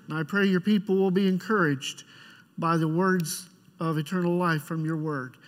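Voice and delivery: prayer. Acted. Pastor leads opening prayer.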